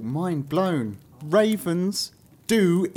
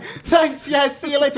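cheerful prince voice; 9 semitones higher, 3 dB louder than usual. Retold or imitated. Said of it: "He's like".

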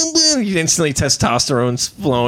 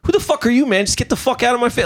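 mock tough guy; 9 semitones higher, faster than usual. Acted telling someone off.

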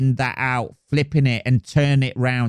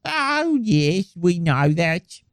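high, slow mock Black Country accent; 6 semitones higher, slower than usual. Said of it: "black country accent or whatever".

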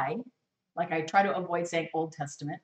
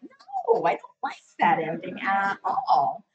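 disgusted; 3 dB louder, slower than usual. Retold or imitated. Disgruntled reader retold.

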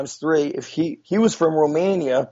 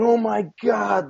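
higher, imitated exclamation of amazement; retold astonishment; 6 semitones higher than usual. Coach learns of his old teammate, retold astonishment. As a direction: exclaim it high, amazed at the coincidence.

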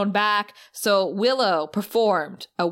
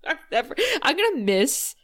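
usual speaking voice

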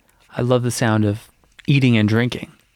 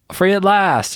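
quoting a homeless woman; 8 semitones higher, slower than usual. Retold or imitated. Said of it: "she said".

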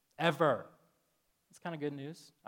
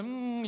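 higher-pitched mimicked kissing "mm"; drawn-out kiss hum; 9 semitones higher than usual. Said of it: "and she'd go".

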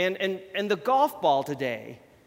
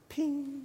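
imitated ping sound; 9 semitones higher, 5 dB quieter than usual. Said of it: "it makes this beautiful sound".

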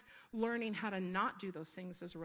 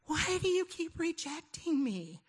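higher, louder and slow, a half-acted scream; ghostly part of herself screaming at her; screaming plea; 9 semitones higher, 5 dB louder, slower than usual. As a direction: cry it out like a hurt child. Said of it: "And she is screaming".

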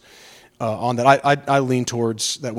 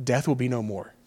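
softer, moved, voice close to tears; choked up; 6 dB quieter than usual. Real, not acted. Pastor overcome while repeating the verse, softly moved. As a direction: let the words catch with emotion. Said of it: "I guess I get emotional".

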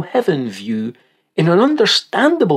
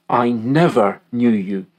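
"never" leaned on, rest lower; stress on never; 3 semitones lower than usual. Shown as a demonstration. Preacher quoting Jesus' rejection, "never" stressed. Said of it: "We really must emphasize the word never".

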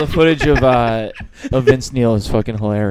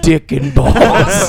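slow suave spy voice; 7 dB louder, much slower than usual. Pretend. James Bond parody.

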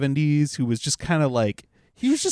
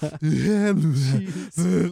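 imitated out-of-breath wheeze; mock breathless heaving. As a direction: heave as if you just ran, played for laughs. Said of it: "sound like he's running out of breath".

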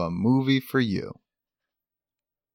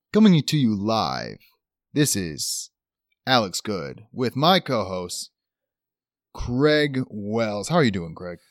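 smooth newscaster opening the broadcast; news anchor voice. Acted. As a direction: read it like a TV anchor. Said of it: "we're gonna go full news anchor voice".

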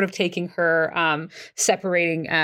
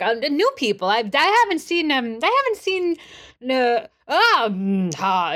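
higher, halting stab at British; searching for British accent; 6 semitones higher than usual. Acted. Liam tries answering about new people, British accent slipping. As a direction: fumble after a British accent and lose it. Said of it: "keeps trying to find the, the accent".

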